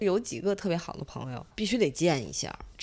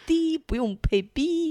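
laughing; 8 semitones higher than usual. Real, not acted. Joking about gibberish podcast.

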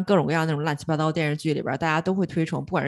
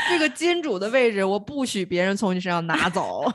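domineering ceo; 2 semitones higher than usual. Pretend. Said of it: "为什么要用最霸气的语气".

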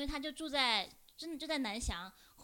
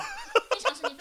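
much higher, louder 非常生气 with a laugh; laughing exclamation; 9 dB louder than usual. Real, not acted. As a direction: burst out 非常生气, laughing hard. Repeating the answer, laughing. (大笑着高声喊“非常生气”)

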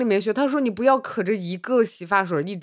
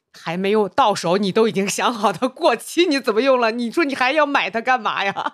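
exasperated dad; 4 semitones higher than usual. Retold or imitated. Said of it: "他爸说".

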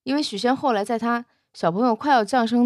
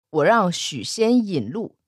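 stern monk; 3 semitones lower than usual. Acted. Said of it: "怒目圆睁".

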